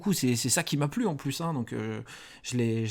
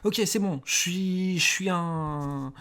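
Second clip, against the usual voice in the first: higher, stammering plea for mercy; terrified gangster prisoner; 3 semitones higher than usual. Acted. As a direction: stutter out a begging plea. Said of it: "Et t'es".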